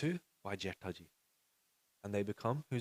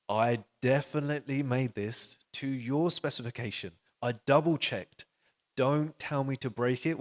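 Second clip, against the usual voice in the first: louder, emphatic objection; insistent protest; 3 semitones higher, 5 dB louder than usual. Acted. Disciple objects to his Guru's order to break it, insistent protest. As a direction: push back firmly, stressing each point.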